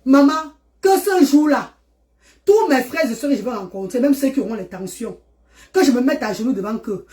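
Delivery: fervent prayer voice; heartfelt public prayer. Acted. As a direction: plead earnestly like a prayer.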